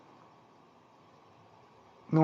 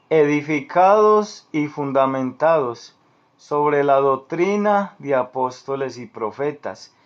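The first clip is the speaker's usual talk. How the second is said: measured reading, phrase by phrase; slow reading. Real, not acted. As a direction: read scripture slowly and deliberately. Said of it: "te lo voy a leer despacio".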